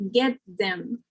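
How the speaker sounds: "Get them" with th made a dental t. Shown as a demonstration. Teacher showing assimilation to learners, "Get them" with TH as dental T. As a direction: let the t of "Get" run into "them". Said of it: "will become like a T".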